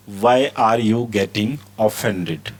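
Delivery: each word stretched out; very slow model reading. Shown as a demonstration. Teacher reads the phrase very slowly to students. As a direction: stretch it out for learners. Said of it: "teacher repeats model sentence".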